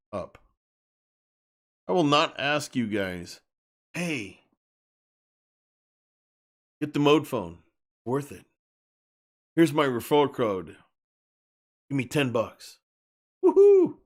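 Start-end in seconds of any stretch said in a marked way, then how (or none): 3.9-14.0 mock shill. Parodying referral-code shill pitch.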